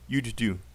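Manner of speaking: "You'd do" with a held d linking into do; contracted form. Shown as a demonstration. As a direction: glide "You'd" into "do", keep the d. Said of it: "You have to say it".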